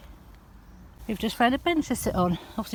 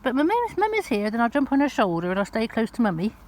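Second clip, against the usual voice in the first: voicing the dog; 4 semitones higher, 3 dB louder than usual. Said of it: "He said".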